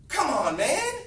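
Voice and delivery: loud, high, swooping appeal; exasperated urging. Real, not acted. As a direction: shout it in exasperated disbelief. Exhorting staff in exasperation.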